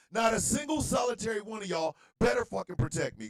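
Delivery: angry shout at the audience; real anger. Real, not acted. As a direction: warn them hard, fed up and fuming. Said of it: "angry, I know".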